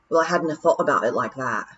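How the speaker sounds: fast, lightly Scottish pixie voice, a hint of sheepish; a pixie caught out, mumbling it off; Rob crestfallen. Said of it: "he said".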